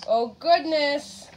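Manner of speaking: slow, amazed oh goodness; surprised. Real, not acted. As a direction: gasp out oh goodness slowly. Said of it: "reader reacts to picture".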